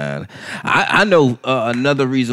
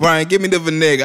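light Bahamian accent, imitating mom; mom's mild Bahamian accent; 4 semitones higher than usual. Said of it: "your Bahamian accent ain't that strong".

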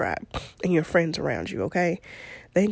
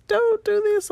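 high, louder, half-joking cry of "don't do this"; louder mock plea; 5 dB louder, slower than usual. Mom pleads with her son as guilt hits, louder and higher. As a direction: beg him a bit more desperately, half in jest.

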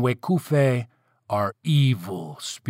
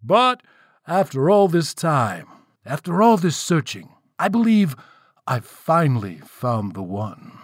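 raised, high-pitched build, dropping at the reveal; proclaiming king; 4 semitones higher than usual. Acted. Spirit king announces his choice to the crowd, grand proclamation. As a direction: declaim grandly with swelling emphasis.

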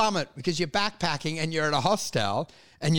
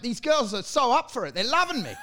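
deluded boasting; 5 semitones higher than usual. Acted. Mimics deluded boastful traveller.

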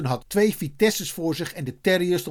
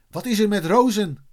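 higher-pitched called question; mildly raised voice; calling out; 6 semitones higher, 4 dB louder than usual. A narrator's reading. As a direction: call the question over, lightly acted. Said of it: "riep Eddy".

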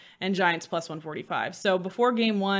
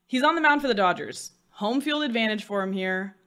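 normal talking voice

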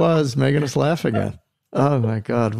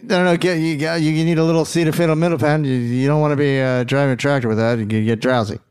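lightly imitated Southern accent; quick, mild Southern accent impression; little Southern accent. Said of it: "she did it with a little Southern accent".

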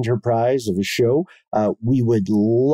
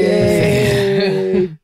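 fake cheer; 9 semitones higher, 5 dB louder than usual. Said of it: "That is fake".

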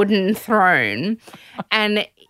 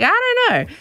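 unsure voice; faster than usual. Retold or imitated. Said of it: "they'd be like".

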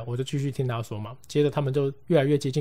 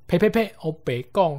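startled; 6 semitones higher, 5 dB louder than usual. Retold or imitated. Friend spits off bad luck.

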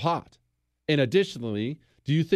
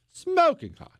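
gushing; 13 semitones higher than usual. Real, not acted. Gushing over accent.

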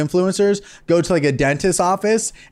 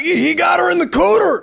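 mock redneck yell; 12 semitones higher than usual. Podcaster imitating a husband yelling about a crocodile, hammed-up shout. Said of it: "sounds like what a guy would yell".

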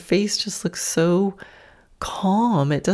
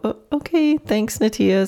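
caught off guard; 7 semitones higher than usual. Retold or imitated. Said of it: "so I had to just go".

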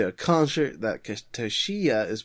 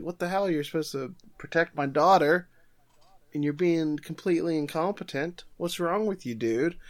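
high-pitched angry mock tirade; mock yell; 6 semitones higher than usual. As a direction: rant at him like an outraged father. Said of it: "yells at Takagi".

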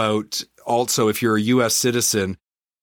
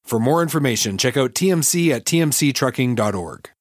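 chipper 1950s ad; 2 semitones higher than usual. Acted. Host reads sponsor ads.

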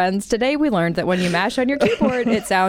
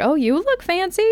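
Donna quote; 12 semitones higher than usual. Retold or imitated. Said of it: "Donna's like".

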